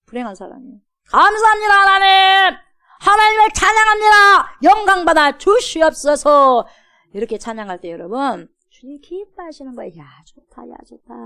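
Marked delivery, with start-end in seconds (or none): 1.1-6.7 loud, high, ringing praise; fervent praise. Shown as a demonstration. Model joyful praise. 10.0-11.1 pleased murmur. Pretend. God's pleased reaction.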